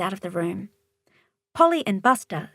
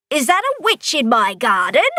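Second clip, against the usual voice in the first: shouting; 4 semitones higher, 4 dB louder than usual. Acted. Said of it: "the monster shouts".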